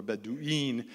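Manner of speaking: "Bedouin" said Bedu-een; plural ending "een". Shown as a demonstration. Explaining the plural of Badu, "Bedouin" as Bedu-een. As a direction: end "Bedouin" on a long, clear "een". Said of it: "Een is the plural".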